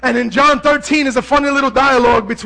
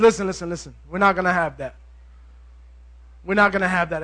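low, soft and firm; hushed, lowered voice reining them in; calming intervention; 7 semitones lower, 6 dB quieter, faster than usual. Acted. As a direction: settle everyone down quietly. Jesus calms after ear cut off.

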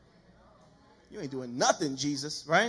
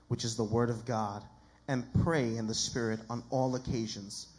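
measured, lower-pitched Bible reading; scripture reading; 5 semitones lower than usual. Acted. Preacher reading scripture to the congregation, measured and solemn. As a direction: read each phrase out solemnly.

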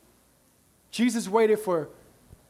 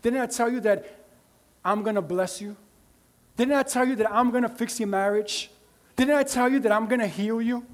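loving. Acted. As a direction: reassure them like a loving father. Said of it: "He was with a loving".

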